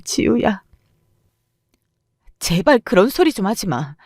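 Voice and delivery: ordinary delivery, nothing marked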